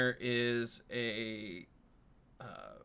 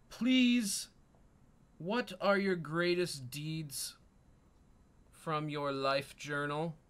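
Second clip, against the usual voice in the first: mouse king; 2 semitones higher than usual. Acted. GM voices the king at length.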